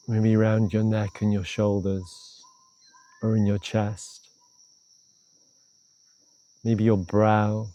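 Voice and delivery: calm, unhurried meditation guidance with long pauses; guided meditation. Real, not acted. Teacher leading a short meditation on tension, calm guided-meditation voice. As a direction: ease the listener inward, leaving space between phrases.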